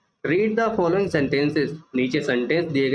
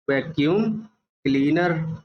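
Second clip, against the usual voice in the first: slow spelled-out word. Shown as a demonstration. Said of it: "ये है वैक्यूम क्लीनर".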